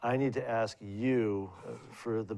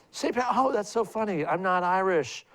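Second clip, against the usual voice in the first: put-on higher-pitched, louder old landlady voice; elderly landlady; 9 semitones higher, 5 dB louder than usual. Old landlady scolding her tenant about green, pitched up and louder.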